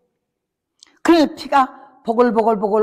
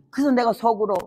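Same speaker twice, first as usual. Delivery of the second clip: usual speaking voice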